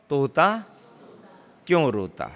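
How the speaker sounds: तोता left rising, a pause, then क्यों रोता falling; pause after तोता. Shown as a demonstration. Preacher announcing a book title, pause after तोता.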